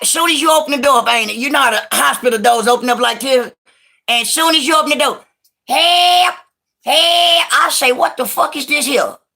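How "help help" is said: high hollered calls. Telling a story about arriving at the hospital, imitating Pigfeet hollering help. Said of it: "You hear Pigfeet hollering down the hallway".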